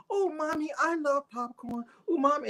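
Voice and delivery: put-on high, sing-song little girl begging mommy. Man mocking a chatty girl in a high little-girl voice. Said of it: "The little girl just kept talking".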